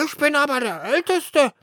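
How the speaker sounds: high, loud insistent bird voice; eldest sparrow. Acted. Eldest sparrow claims the nest, high squeaky voice. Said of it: "erwiderte der Dritte".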